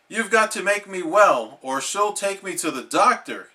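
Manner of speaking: mild yell. Acted. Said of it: "yelled SpongeBob".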